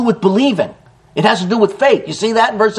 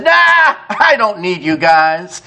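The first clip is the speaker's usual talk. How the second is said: drawn-out, slow brush-off; dismissive refusal; slower than usual. Acted. Man turning down IBM's offer, dismissive. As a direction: wave them away with a long Nah.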